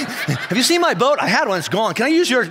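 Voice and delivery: teasing Jesus. Pretend. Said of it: "if I was Jesus, I'd be like".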